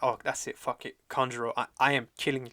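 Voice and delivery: loud, mock-angry outburst; retold anger. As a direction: act out someone losing his temper. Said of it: "Kinemon, he gets all angry".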